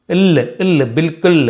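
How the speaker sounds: బిల్కుల్ ending on a bare l, as in ఇల్; cut-off final l. Shown as a demonstration. Teacher isolates the ending, ఇల్ and బిల్కుల్ closed on l. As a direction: stop బిల్కుల్ on the l, not a full laa. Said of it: "దీన్ని లా అని పలకట్లేదు".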